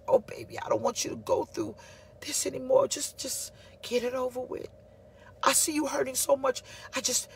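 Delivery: a wife easing her suffering husband; tender pity. Retold or imitated. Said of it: "came from a place of saying".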